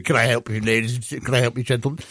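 lightly voiced menswear sales assistant; Are You Being Served? shop assistant. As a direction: offer help like a sitcom floorwalker. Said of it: "like from Are You Being Served?".

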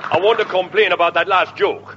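silly put-on complaining voice; un-Scottish comic Scotsman. Scotsman complaining about the last joke, in a silly voice. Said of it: "why are you talking like that?".

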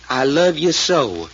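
slow, drawn-out mild plea; retold pleading. Doc retelling Cherry's sweet words to her sister, mildly pleading. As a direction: plead it slowly, as a retold quote. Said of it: "in a kinda pleading voice".

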